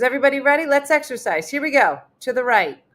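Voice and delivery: rally a room of seniors in wheelchairs; peppy exercise leader. Retold or imitated. Exercise leader calling to residents.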